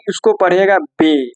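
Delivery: बे said as a short clear be, not bee, slowly; German letter name. Shown as a demonstration. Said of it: "इसको बी नहीं".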